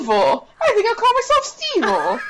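mock evil dummy. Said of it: "dummy naming itself".

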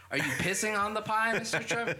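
high, quick, incredulous through giggles; squeaky-high disbelief, breaking into laughter; laughing mock question. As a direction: ask it while cracking up. Mock question to Trump, cracking up.

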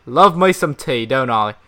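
mild put-on Australian accent. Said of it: "that was more Australian".

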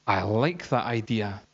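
slow, savoured approval; retold delight. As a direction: draw it out, relishing the idea. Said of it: "Joe's face lit up".

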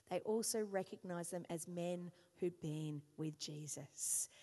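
measured, solemn scripture reading; preacher reading the Bible aloud. Acted. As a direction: read the passage with weight. Reads scripture passage aloud.

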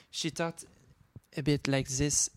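lightly imitated French accent, th as z; a hint of a French accent. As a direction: say "this" as "zis". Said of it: "instead of the T H".

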